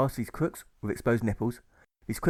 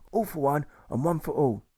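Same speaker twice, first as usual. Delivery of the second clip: chiming pledge; 5 semitones higher than usual. Acted. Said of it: "the watchmaker chimes".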